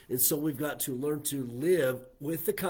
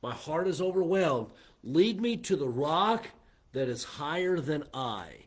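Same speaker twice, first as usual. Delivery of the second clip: raised, louder voice in a psalmist's prayer; fervent prayer; 3 semitones higher, 5 dB louder than usual. Acted. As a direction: call up to God, voicing the overwhelmed psalmist. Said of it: "he prays this".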